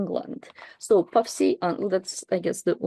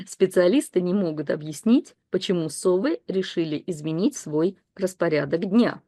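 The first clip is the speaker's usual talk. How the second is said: steady newsreader style; read-aloud news text. Acted. Teacher reading the owl news story to learners, in a newsreader style. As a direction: read it like a broadcast bulletin.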